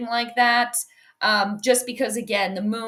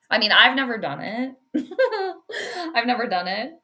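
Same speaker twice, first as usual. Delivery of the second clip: laughing; faster than usual. Real, not acted. Laughs while admitting.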